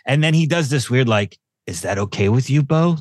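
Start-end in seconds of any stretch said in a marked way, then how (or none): 1.7-3.0 mock-serious, pointed question; real serious. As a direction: imitate a doctor checking in very seriously. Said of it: "Like, real serious".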